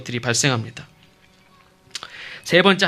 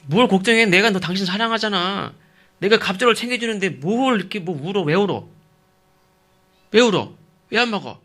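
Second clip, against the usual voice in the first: high-pitched, loud badgering questions; exasperated husband; 6 semitones higher, 3 dB louder than usual. Husband badgering his weeping wife, exasperated. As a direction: demand answers like an exasperated husband. 설교자가 남편의 타박을 연기.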